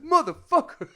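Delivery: very high, loud mock rage; imitated pissed-off yell. Imitating a soldier teased about his weight, furious yell. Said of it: "he looked so pissed".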